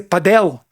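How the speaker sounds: "padel" stressed on the last syllable; gringo-style "padel"; imitated mispronunciation. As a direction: say "padel" the English way, pa-DELL. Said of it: "hablando inglés, dice padel".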